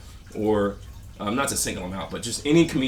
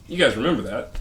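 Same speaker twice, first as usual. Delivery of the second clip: mock comic voice, changed tone. Vlogger repeating a comic's catchphrase in a put-on voice. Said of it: "It's just repeating".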